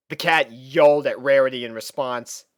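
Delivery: usual speaking voice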